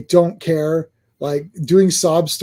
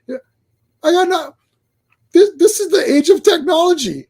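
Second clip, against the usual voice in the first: laughing; 10 semitones higher than usual. Real, not acted. Laughing through the rant.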